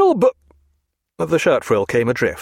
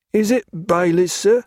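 guard asking; 7 semitones higher than usual. A narrator's reading. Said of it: "asked the first".

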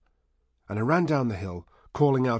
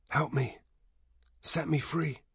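higher-pitched plea for release; pleading; 5 semitones higher than usual. A narrator's reading. Dead teacher begging his pupil at the wall, pleading. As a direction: beg to be set free.

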